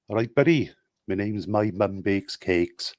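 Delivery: slow regional British accent; casual greeting in a put-on accent, name drawn out. Shown as a demonstration. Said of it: "give one in as many accents as you want".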